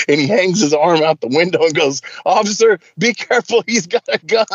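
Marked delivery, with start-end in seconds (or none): 2.3-4.5 higher-pitched call out to a cop; mock warning. James hangs out the window to the officer, mock warning. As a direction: imitate a prankster sounding the alarm.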